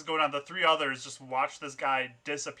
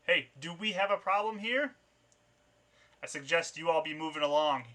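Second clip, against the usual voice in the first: mild challenging shout, pitch climbing on the question; raised-voice warning, held back; 4 semitones higher, 4 dB louder than usual. Acted. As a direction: call out to intruders down an alley.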